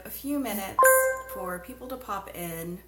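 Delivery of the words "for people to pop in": phone pings in background; over notification pings. Real, not acted. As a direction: talk over phone alert sounds. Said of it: "Sorry about the notifications on my phone".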